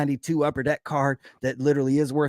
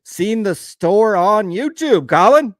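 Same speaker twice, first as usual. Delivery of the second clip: Southern accent; 6 semitones higher, 9 dB louder, slower than usual. Shown as a demonstration. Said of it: "say this with, like, a little Southern accent".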